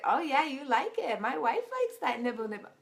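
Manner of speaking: egging them on in a hammed-up counselor voice; imitating the counselor. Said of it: "And he's like".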